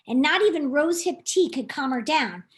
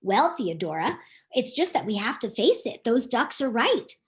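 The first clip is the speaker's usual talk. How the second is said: a lightly deeper easygoing duck; Chad the duck; 4 semitones lower than usual. Acted. Chad voiced lower.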